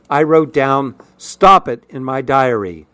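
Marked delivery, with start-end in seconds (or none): 1.2-1.8 high-pitched, curt order. A narrator's reading. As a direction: order them to stop at once. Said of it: "he ordered".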